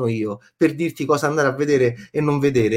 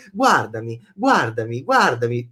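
low, slow mock hypnotist; 6 semitones lower than usual. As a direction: chant it like a hypnotist. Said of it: "Proviamo a ipnotizzare".

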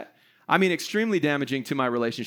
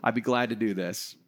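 mild, willing acceptance, dropping lower; agreeable husband; 4 semitones lower than usual. Pretend. Husband models the proper response to his wife's list, agreeable. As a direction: play the obliging husband, easing down at the end. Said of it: "respond in a proper way".

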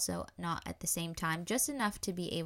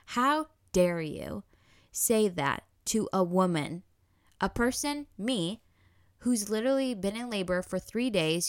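retold furious rebuke; 3 dB louder than usual. Mother confronting the doctor who called her failed, angry retort. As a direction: tear into him, word by word. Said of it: "I jumped down this man's throat".

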